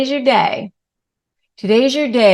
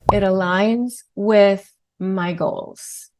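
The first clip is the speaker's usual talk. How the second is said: calm brief reply; slower than usual. Shown as a demonstration. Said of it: "just say".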